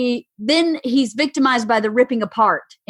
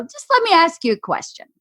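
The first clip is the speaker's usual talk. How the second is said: controlled, higher-pitched calm question; retold calm; 5 semitones higher than usual. Wife replays calm reply to husband, controlled. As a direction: stay composed while confronting him. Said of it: "go very calm and go".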